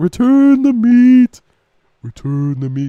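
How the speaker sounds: slow, drawn-out cartoon ghost voice. Voicing a ghost coming out of a burger: Courage the Cowardly Dog ghost voice. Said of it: "instead of "Return the slab" from Courage the Cowardly Dog".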